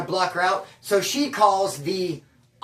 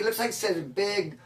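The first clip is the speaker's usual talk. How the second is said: softer and lower, slow and hesitant; embarrassed mumble; 4 semitones lower, 6 dB quieter, slower than usual. Retold or imitated. Embarrassed customer repeating the title, quiet and slow. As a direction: read it out like you wish you didn't have to. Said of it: "It's hell embarrassing".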